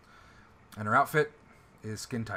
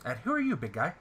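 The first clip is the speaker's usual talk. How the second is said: higher, pinched nasal character voice; nasal NPC voice; 4 semitones higher, 8 dB louder than usual. Acted. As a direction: play her high and nasal.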